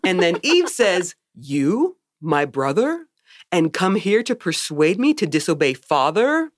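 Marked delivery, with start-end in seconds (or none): 1.4-6.5 lightly voiced empty-headed innocent; a touch of robotic wonder; blank Eve. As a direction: ask it blankly, with small pauses. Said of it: "like she has nothing in her brain".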